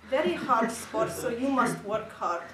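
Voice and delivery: hammed-up Russian coach pep talk; heavy Russian accent. Beer-bellied coach giving gymnasts a pep talk, heavy Russian accent. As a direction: lecture the team in a thick, slow Russian accent. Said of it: "With his heavy Russian accent".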